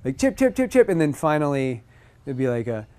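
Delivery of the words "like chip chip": high bird chips; imitated bird chips. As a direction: chirp like a cardinal.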